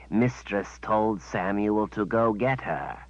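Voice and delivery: slow, simple-minded creature voice; creature servant. Acted. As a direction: dull beast reciting orders.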